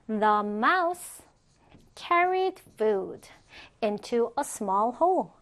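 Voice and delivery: slow, with clear pauses between phrases. Shown as a demonstration. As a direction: model it slowly, chunk by chunk for learners. Teacher models sentence piece by piece.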